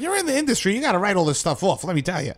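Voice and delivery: imitated tax lady in a Jewish accent, starting high; hammed-up Jewish New York street-vendor accent; mock Jewish accent. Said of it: "That was my Jewish accent".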